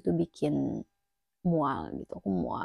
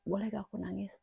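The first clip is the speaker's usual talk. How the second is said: timid ask; 6 dB quieter, faster than usual. Retold or imitated. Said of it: "aku bilang kayak".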